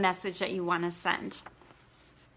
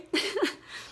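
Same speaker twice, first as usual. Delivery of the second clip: tearful laugh; 9 semitones higher than usual. Real, not acted. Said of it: "I'm gonna try not to cry".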